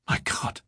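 "My God!" whispered, both words equally stressed. A narrator's reading. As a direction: give "My" and "God" the same weight, breathy. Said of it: "pronounced these two words with equal stress".

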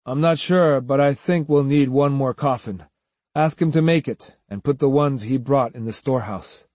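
subdued, resigned reply; dispirited. Acted. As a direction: give the instruction without any heart. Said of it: "answered dispiritedly".

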